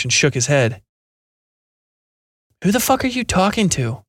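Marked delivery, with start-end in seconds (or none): 2.6-4.0 higher-voiced coworker, incredulous; scoffing coworker. A narrator's reading. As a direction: sneer the question at him.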